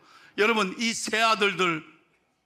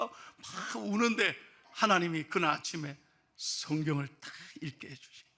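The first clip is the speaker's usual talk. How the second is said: ordinary delivery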